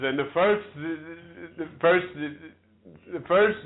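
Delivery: halting, restarting on the same word; stammering. Real, not acted. Woman struggling through a Shakespeare speech, real stammer. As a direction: catch and repeat, unable to move on. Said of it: "feel like the damn King's Speech".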